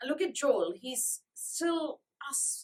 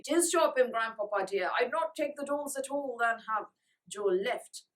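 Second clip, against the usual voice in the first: pleading; 4 dB louder than usual. Acted. Francie pleads.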